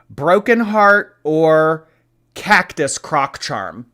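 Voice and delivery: drawn-out game-show host. Pretend. Dramatic game-show choice.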